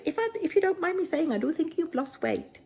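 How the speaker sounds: a dreadful, hammed-up Canadian accent; a drama teacher's clumsy Canadian accent for the girlfriend's compliment; bad Canadian accent. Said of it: "That was me trying to do a Canadian accent".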